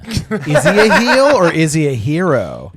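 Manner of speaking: loud hammed-up wrestling host; announcer voice. Mock wrestling podcast intro.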